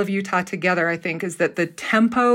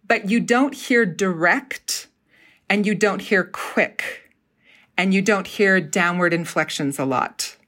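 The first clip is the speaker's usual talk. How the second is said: slow and leisurely. Shown as a demonstration. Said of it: "I'm just kinda going slower".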